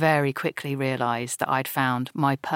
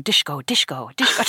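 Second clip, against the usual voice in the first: a clumsy mock Dutch accent, fumbling for the name; awful Dutch accent; 3 semitones lower than usual. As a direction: imitate a bad Dutch accent, half-hearted and flustered. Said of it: "Trying to do this awful, awful, terrible, offensive Dutch accent".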